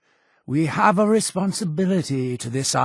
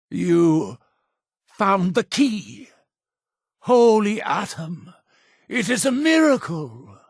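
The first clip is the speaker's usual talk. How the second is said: rising, high-pitched awe; reverent amazement; 5 semitones higher than usual. Acted. Cult leader learning the follower found the key, awed. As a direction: marvel as at a holy miracle.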